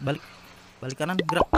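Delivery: playful parade-ground order; mock drill command. Gamer ordering zombies to turn around, mock drill command. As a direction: bark it like a drill instructor.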